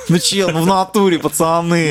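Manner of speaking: russian street thug. Pretend. Mock street-talk oath banter.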